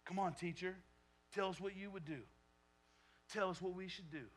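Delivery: mock-respectful sarcastic taunt; sarcastic Pharisees. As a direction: needle him with fake respect. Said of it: "this is all very sarcastic".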